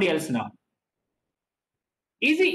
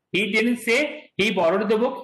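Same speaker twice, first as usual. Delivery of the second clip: "borrowed" as the contrasted word; stress on BORROWED. Shown as a demonstration. Teacher explaining to student, stress on "borrowed". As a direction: lean on "borrowed", as opposed to stole. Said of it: "stress is on the word of what".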